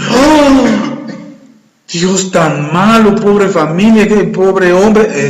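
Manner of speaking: slow, drawn-out whiny pity; mock pity. The preacher mocks someone who calls God cruel, drawn-out whine. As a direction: mimic a self-pitying complainer, stretching the words. Mocking the complainer.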